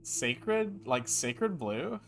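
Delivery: put-on French Valley Girl. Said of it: "my French Valley Girl impression".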